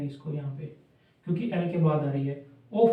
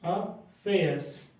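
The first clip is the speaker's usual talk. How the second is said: "अफेयर्स" को बहुत धीमे, हर ध्वनि खींचकर; शब्द को तोड़-तोड़कर धीमा बोलें; धीरे-धीरे; 4 dB quieter, much slower than usual. Shown as a demonstration. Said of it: "ए की साउंड आ रही है पहले". (छात्रों को "ए" की ध्वनि सुनाने के लिए बहुत धीमा उच्चारण)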